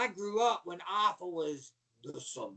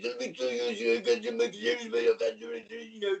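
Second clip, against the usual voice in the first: mock Russian accent, pitched up; Ivan Koloff; 4 semitones higher than usual. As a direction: rant like a Russian wrestling villain. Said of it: "You ain't Russian".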